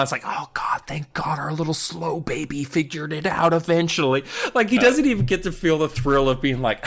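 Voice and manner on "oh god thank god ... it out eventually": unvoiced relieved whisper; dad whispering relief to mom; whispered aside.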